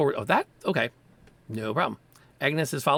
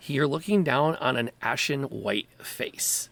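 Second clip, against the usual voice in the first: measured, suspenseful scene setting; slow in places, dramatic storytelling; game master narration; slower than usual. Acted. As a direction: draw out the reveal for the players.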